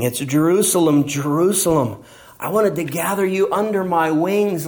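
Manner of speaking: a touch of tearful lament; weeping. Shown as a demonstration. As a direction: mourn the city as you say it. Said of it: "No, it's weeping".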